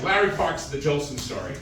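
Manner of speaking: Larry Parks impression. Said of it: "my quick impression".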